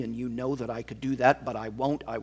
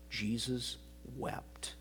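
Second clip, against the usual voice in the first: breathed, near silent; hushed reverent whisper; 10 dB quieter, slower than usual. Acted. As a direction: drop it to a whisper. Repeated verse hushed.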